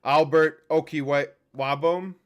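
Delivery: slow, halting go at "Okiwabom"; unsure pronunciation. Real, not acted. Host reading unfamiliar signing's name, stumbling on "Okiwabom". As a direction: sound out "Okiwabom" piece by piece, unsure. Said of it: "I can't even pronounce that name".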